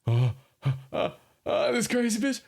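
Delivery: high, breathless panicked whisper. Shown as a demonstration. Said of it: "full fear mode".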